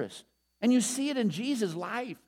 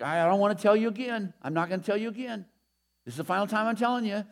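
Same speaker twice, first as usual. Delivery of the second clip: nagging parent; faster than usual. Retold or imitated. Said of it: "as a parent".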